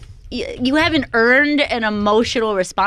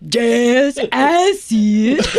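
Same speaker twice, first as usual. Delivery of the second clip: slow, louder southern delivery; mock southern drama; 3 dB louder, much slower than usual. Mocking a movie actress in hokey southern style. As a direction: lean into a hokey southern line. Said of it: "then she goes".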